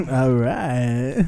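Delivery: low, quiet repeat; soundboard clip. Pretend. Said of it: "Putting that on the soundboard".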